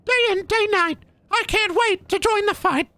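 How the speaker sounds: high, far-off tormented monologue; spooky villain voice. Pretend. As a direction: ham up a cursed creature. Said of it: "it's gonna be like".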